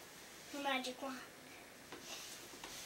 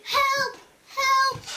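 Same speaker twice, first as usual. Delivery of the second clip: high, loud cries for help; acted storybook distress shout; loud calls for help; 10 semitones higher, 11 dB louder than usual. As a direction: call out as the sinking witch. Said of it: "he heard loud calls of".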